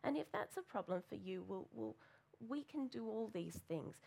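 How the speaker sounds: a lightly voiced calm, gentle reply. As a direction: quote the leader softly and evenly. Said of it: "in a very gentle and very calm way".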